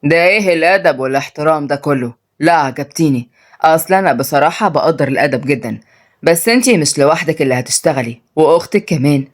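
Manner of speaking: low, controlled voice of a master; haughty master. Acted. Master remarks on the girl's manners, low and haughty. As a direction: address her low and superior.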